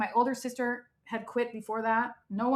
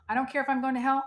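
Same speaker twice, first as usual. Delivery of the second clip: "hell" pushed out higher and louder, half-laughing; mother at her husband, a touch louder; mild mock wail; 4 semitones higher, 5 dB louder, faster than usual. Son retelling mother's outburst to husband, raised voice. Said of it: "she's like".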